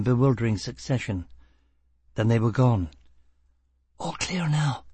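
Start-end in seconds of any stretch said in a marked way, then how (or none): 4.0-4.8 high-pitched whisper. A narrator's reading. Woman tells her partner the guards are gone, whispered. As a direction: whisper it cautiously. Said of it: "Gisbella whispered".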